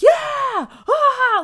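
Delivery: high, loud sports-fan yell; mock roar at the big game; imitated game cheering. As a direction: whoop like a husband watching the Super Bowl. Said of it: "making all these noises".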